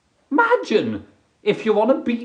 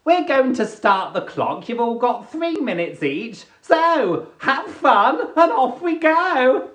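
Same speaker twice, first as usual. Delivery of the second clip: organizer Sandra; 5 semitones higher than usual. Retold or imitated. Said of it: "she goes".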